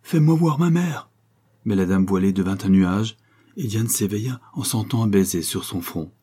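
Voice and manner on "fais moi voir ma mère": much higher, slow pleading cry; child crying out in a dream for her mother; trying to cry out. Acted. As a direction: beg the veiled lady desperately. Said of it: "Elle essaya de crier".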